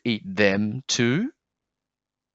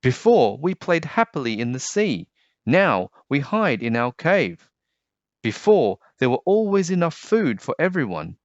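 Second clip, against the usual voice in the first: earnest plea; 4 semitones higher than usual. Acted. Rainbow Fish urges the others.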